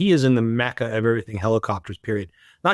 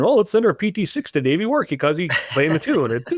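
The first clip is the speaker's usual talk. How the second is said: laughing; 4 semitones higher than usual. Retold or imitated. Customers voiced in a joke.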